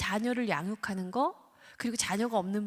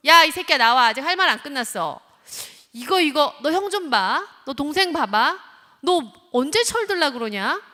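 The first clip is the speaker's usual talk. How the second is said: loud, higher chasing scold; comparing scold; 5 semitones higher, 10 dB louder than usual. Retold or imitated. Parent following child to room, loud comparing scold. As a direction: hound the kid through the door. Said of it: "하면서 이제 비교를 합니다".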